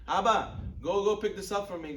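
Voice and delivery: mock demanding call. Bossy son sending his father on errands, mock demanding.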